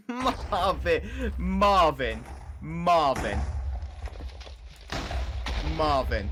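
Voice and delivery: calling out over and over; betrayed and heartbroken. Real, not acted. Island under attack.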